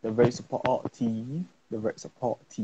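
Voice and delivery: British accent with stretched-out words; put-on British accent. Shown as a demonstration. Guest describing the Sierra Teens in a put-on British accent. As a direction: draw it out in an attempted British accent. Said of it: "say this in a British accent".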